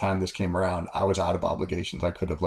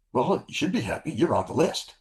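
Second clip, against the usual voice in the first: mock female voice, raised pitch; higher imitated woman; 7 semitones higher than usual. Liaison tells pilot he's on the list, higher voice. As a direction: lightly play the wife breaking news.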